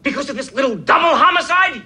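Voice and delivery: sarcastic outburst; exasperated shout. Real, not acted. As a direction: throw the words back at him. Doctor quitting, exasperated.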